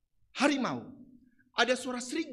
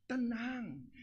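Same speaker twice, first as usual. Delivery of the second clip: soothing hush; 8 dB quieter than usual. Acted. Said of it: "datang gembala".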